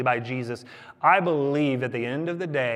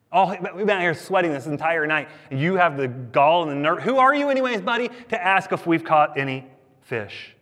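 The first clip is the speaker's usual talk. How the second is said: indignant, leaping up on the challenge; mock indignation; 2 semitones higher than usual. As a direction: play an affronted fisherman answering back. Disciples acted answering back indignantly.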